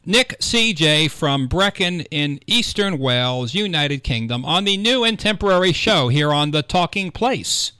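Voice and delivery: punchy talk-radio station ident; radio announcer. Acted. Host telling listeners about his coffee break show, radio announcer. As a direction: announce guest, show and what's coming up.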